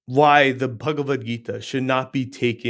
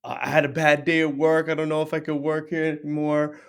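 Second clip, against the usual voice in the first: mock rambling complaint. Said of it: "you're rambling something".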